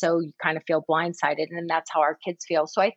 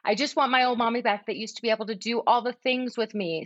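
put-on child's voice; 5 semitones higher than usual. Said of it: "in the older sibling's voice".

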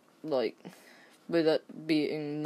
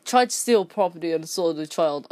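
stern employee; 4 dB louder than usual. Retold or imitated. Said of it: "Employee says".

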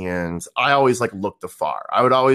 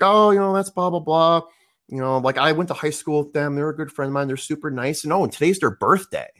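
high friend voice; 4 semitones higher than usual. Retold or imitated. Friend Caliper voiced in story.

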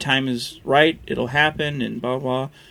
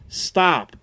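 one calm, firm word; just say it, no fuss; firm simple command; 3 semitones higher than usual. Retold or imitated. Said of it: "But now it was".

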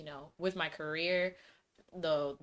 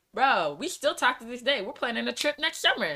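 excited; 8 semitones higher, 6 dB louder than usual. Real, not acted. Excited about her friends.

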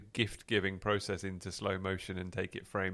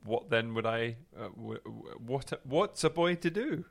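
spluttering outrage; 4 semitones higher than usual. Acted. Mock flustered dilemma.

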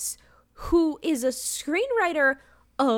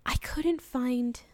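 whisper; 5 dB quieter, slower than usual. Real, not acted. Confiding to cohost about research.

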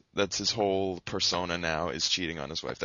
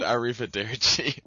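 put-on Italian accent; 4 semitones higher, 5 dB louder than usual. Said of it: "He said".

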